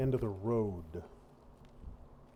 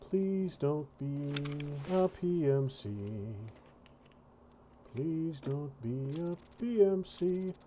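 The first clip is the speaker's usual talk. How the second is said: slow, higher-pitched plea; pleading; 3 semitones higher than usual. Real, not acted. Player hoping the figure ahead is no threat, pleading. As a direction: beg under pressure, drawing the words out.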